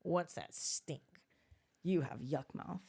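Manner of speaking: lightly voiced toddler; two-year-old girl. Mother replaying toddler's insult, lightly imitated child voice. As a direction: imitate a small child's blunt remark. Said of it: "It sounded just like that".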